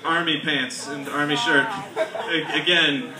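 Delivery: giggling through his own quoted thought; laughing while quoting himself. Retold or imitated. Comic telling himself how she'll love it, laughing. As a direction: laugh through the words as you retell it. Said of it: "and I'm like".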